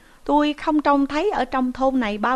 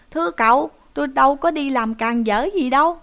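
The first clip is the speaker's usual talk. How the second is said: higher, louder pleading protest; crying out; 4 semitones higher, 5 dB louder than usual. Acted. Nephew crying out to his uncle that he did nothing wrong, high loud protest. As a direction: protest innocence in a raised, high cry. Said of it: "Người kia mới kêu rằng".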